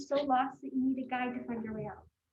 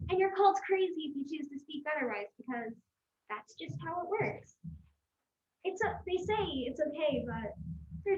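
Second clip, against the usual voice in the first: ranting; 3 semitones higher than usual. Acted. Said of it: "Rant poetry".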